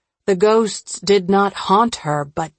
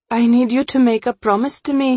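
quick, raised, urgent plea; urgent request; 4 semitones higher, much faster than usual. Acted. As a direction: press for a promise in a hurry. Woman urgently asks friend for promise.

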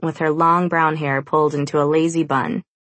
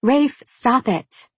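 snapping; 8 semitones higher, much slower than usual. A narrator's reading. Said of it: "Brianna snaps".

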